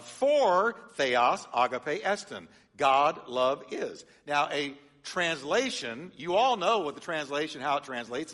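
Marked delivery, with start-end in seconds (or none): 0.0-4.1 "theos agape estin" read slowly and firmly; slow emphatic reading. Shown as a demonstration. Pastor rereads the verse ending slowly for the congregation. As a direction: lean on each Greek word, slowly. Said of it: "But now, here's the deal".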